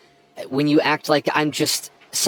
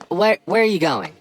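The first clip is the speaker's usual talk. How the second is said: loud, high and alarmed; panicked call as she turns to leave; calling after her; 8 semitones higher, 6 dB louder than usual. Acted. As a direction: stop her before she walks out.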